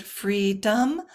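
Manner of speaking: "freedom" stressed on "free", light "dom"; trochaic stress. Shown as a demonstration. Teacher illustrating a trochee, "freedom" with front stress. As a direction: hit the first syllable of "freedom". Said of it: "stressed and then unstressed".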